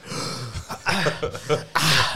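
gasp. Retold or imitated. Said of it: "came out like".

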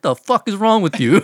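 high-pitched retold irritation; Andrew Schulz. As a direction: act out an upset comic snapping back. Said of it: "like, getting upset".

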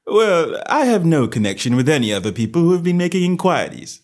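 a touch of offhand detective; careless. A narrator's reading. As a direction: shrug it off as no concern of yours. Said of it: "said Holmes carelessly".

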